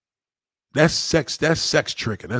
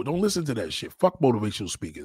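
ordinary talk, nothing marked

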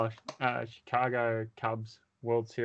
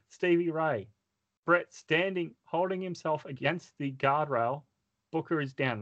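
rising excitement, higher pitch; excited play-by-play; 7 semitones higher than usual. Acted. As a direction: call the finish like a commentator. Climax of narrated match.

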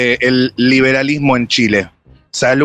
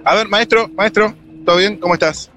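higher-pitched street hail; calling to a passer-by; 6 semitones higher than usual. Real, not acted. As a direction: catch a stranger's attention, voice raised in pitch.

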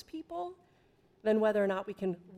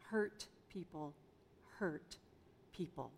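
repeated softer, sinking at the end; soft echo; 5 semitones lower, 11 dB quieter than usual. Shown as a demonstration. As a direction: let the saying settle in a hushed echo. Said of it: "You've probably heard the phrase".

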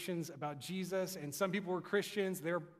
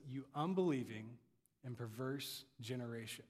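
low, deliberate rebuke, broken by a pause; understated reproach, sinking lower and softer; exasperated Jesus; 5 semitones lower, 4 dB quieter than usual. Acted. Jesus answers the crowd, exasperated. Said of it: "was not the calm, cool, collected".

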